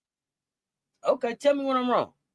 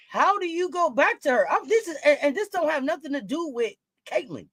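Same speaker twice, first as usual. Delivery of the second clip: laughing while talking; 5 semitones higher than usual. Real, not acted. Laughing as he talks.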